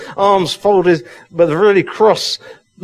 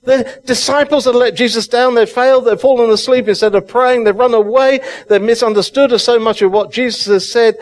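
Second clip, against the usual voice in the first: building passion in the pulpit; excited preaching; 5 semitones higher than usual. Real, not acted. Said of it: "I'm getting so excited".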